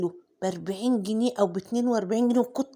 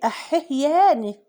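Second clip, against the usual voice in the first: mock shock; 4 semitones higher, 5 dB louder, slower than usual.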